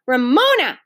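loud, mildly stern name-call. A narrator's reading. Mother warns Ramona by name, stern. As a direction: pull the child up short. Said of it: "Mother's voice was stern".

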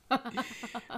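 short high laugh. Retold or imitated. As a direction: laugh in disbelief mid-story. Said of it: "now I'm laughing harder".

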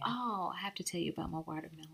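quick excited whisper. Real, not acted. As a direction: lean in and whisper it fast. Sudden aside to co-host.

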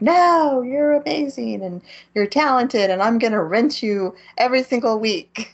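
gushing male lead. Retold or imitated. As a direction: beg her like a lovesick fool. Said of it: "And then he's like".

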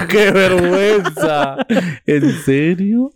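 slow, laughing disbelief. Real, not acted. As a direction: drag the words out through laughter. Laughing at embarrassing story.

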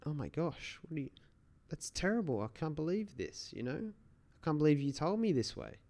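high-pitched, distraught disbelief at the terrible news; shocked owner. Retold or imitated. Owner overseas hearing on the phone his cat died, shocked and high-pitched. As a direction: play the cat owner reeling from the phone call, voice jumping high.

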